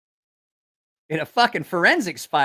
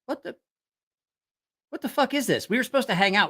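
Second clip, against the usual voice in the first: indignant; 7 semitones higher, faster than usual. Retold or imitated. Angry at leaving buddy.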